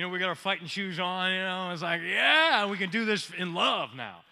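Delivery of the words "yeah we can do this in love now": hammed-up eager yell, louder on yes; mock battle eagerness. Preacher acting eager believers ready to fight, mock shouting. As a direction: pump yourself up for a pretend fight.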